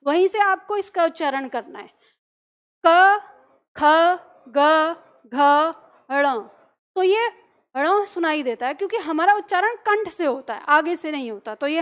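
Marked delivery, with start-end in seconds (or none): 2.8-6.4 क ख ग घ ण, loud and separate, each from the throat; model for repeating. Shown as a demonstration. Teacher leads students repeating क ख ग घ ण, loud and clear. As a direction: call out क ख ग घ ण for the class to echo. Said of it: "तो मेरे साथ दोहराना".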